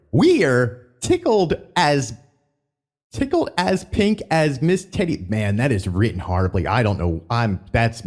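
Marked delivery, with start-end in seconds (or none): 0.1-5.3 slow, higher hammed-up announcer read; a hint of a Country Bear emcee; showman voice retry. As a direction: read it like a folksy show host. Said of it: "oh, let me try that again".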